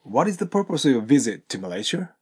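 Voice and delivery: "What is the purpose of your visit to Malaysia?" read with every word linked; linked-up model sentence. Shown as a demonstration. Teacher models the question for students, all linked. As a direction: run "purpose of your" together, rising at the end. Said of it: "ここでのポイントは".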